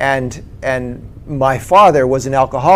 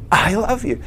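high-pitched, imitated tearful release; retold tearful confession; 7 semitones higher than usual. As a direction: let it out as if choked with tears. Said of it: "I've got tears coming down my face".

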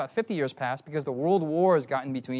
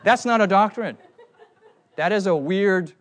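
loud, amused self-mockery through laughter; laughing; 3 semitones higher, 7 dB louder than usual. Real, not acted. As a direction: laugh at your own silly performance. Laughs at own bad accent.

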